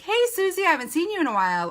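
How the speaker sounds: high-starting, quick casual hello; friendly greeting. Acted. Coach acts bumping into a friend at Target, friendly greeting. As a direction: greet an old friend you just bumped into.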